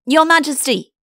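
loud, high reporting call; sentry reporting for duty; prompt sentry. Acted. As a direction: answer smartly and loudly to the king. Sentry answers the king's bellow.

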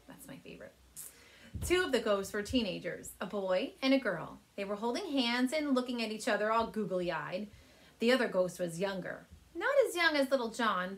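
called out to family in another room; calling out. Acted. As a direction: Claire calling to her family about the movies. Teacher reads aloud to class.

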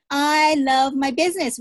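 I love my business said with loud conviction. Shown as a demonstration. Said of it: "Say that with me".

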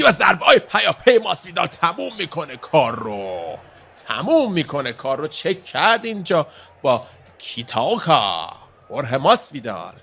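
high, drawn-out finish call; excited play-by-play. Real, not acted. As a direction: shout out the knockout, stretching the key words.

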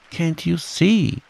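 high, slow exasperated cry; mild shout. A narrator's reading. Piglet shouts at Kanga, high and exasperated. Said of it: "shouted Piglet".

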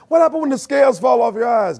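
high ringing shout; preaching shout. Real, not acted. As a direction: call it out to the church.

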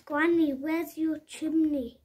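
high, loud worried question; cry. Acted. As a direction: cry out to Granny in alarm. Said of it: "cried Bubble".

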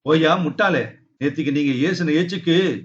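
scolding. Acted. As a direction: tell the foolish father off. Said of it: "என்று அதட்டினேன்".

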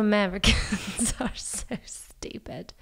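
put-on slow British accent breaking into laughter. Salesperson mocking an American customer, laughing British accent. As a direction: scold in mock British, laughing. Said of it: "try to do an accent".

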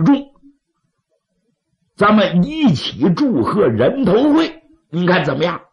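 sly, persuasive schemer; scheming adviser. Acted. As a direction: coax the chiefs toward killing. Scheming adviser speaks to chiefs.

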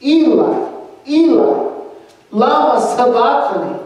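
dying man crying loudly to God; loud mournful cry. A narrator's reading. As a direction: cry it out to heaven in grief. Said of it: "he cried out in a loud, mournful voice".

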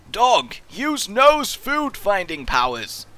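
high, slow grand command; mock command. Gamer ordering the dog to sniff out food, mock grand.

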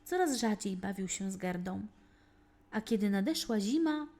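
usual speaking voice

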